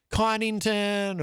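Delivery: Conington drawn out as CON-ing-tun; name variant. Retold or imitated. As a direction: say Conington slowly, stressing the first syllable. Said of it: "sometimes he says Covington or".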